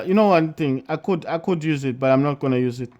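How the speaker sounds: talking while crunching chips; eating chips. Real, not acted. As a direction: mouth full of chips. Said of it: "I'm eating chips".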